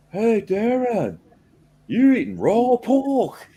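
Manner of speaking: slow, high imitation of Dutch Gamer's accent. Imitating Dutch Gamer teasing him in his accent about raw pork. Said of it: "with his, his accent".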